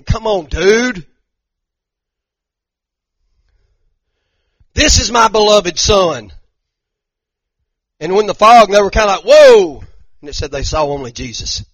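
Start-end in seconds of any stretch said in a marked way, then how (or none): 0.0-6.3 booming, slow and higher voice of God from the cloud. Acted. God speaking to the disciples on the mountain, booming and slow. 9.2-9.8 a loud, startled whoa; stunned whoa. Acted. Disciples reacting to the vision, loud and startled. Disciples see the fog lift.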